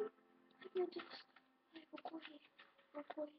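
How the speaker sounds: breathless hushed panic; scared whisper. Acted. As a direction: whisper it, fleeing in fear. Hushed panic, running away.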